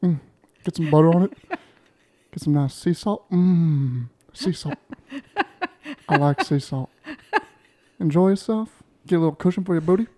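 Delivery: sexy voice. Acted. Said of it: "listen to this sexy voice".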